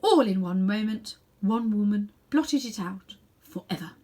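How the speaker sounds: a queen confessing a doom with pride; ominous queen. Acted. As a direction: drop the words like a verdict. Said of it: "She paused and added".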